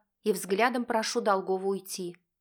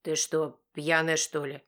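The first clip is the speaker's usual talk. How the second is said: explodes; 4 semitones lower than usual. Acted. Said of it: "взрывается Долгов".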